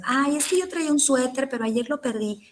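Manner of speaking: a rambly, gossipy answer, lightly voiced; mock rambling excuse. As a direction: act out the chatty student who won't just say yes or no. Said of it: "No que me digas".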